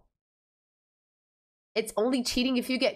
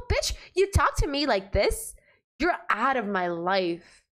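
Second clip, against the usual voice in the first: sassy clapback. Pretend. Answering the game's Greg.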